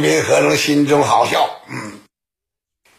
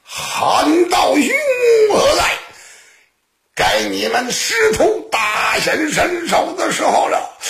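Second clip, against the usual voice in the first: loud calling out; 9 semitones higher than usual. Acted. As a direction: call your ally out from hiding, pitched high. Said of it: "他这才高声喊道". (高声喊叫)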